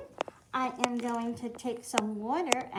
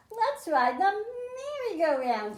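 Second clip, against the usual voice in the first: excited; 9 semitones higher, 4 dB louder than usual. Acted. Little M eager to ride.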